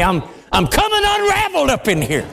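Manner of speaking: rushing then crying out, overcome; real emotion breaking through. Real, not acted. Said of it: "Please forgive me".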